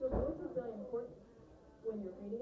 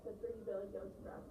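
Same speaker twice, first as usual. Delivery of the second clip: voiceless read-aloud; 3 dB quieter than usual. Shown as a demonstration. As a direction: read it without any expression. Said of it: "I wasn't using any voice".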